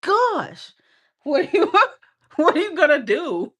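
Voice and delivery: high, loud mocking rant with laughs; mock angry guy. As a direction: ham up an annoyed gym bro telling her off. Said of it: "he goes off on you and he's like".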